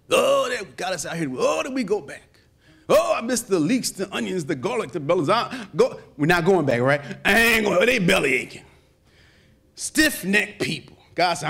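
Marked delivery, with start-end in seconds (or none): 0.1-8.6 mock complaining. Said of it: "murmuring and groaning and belly aching and complaining".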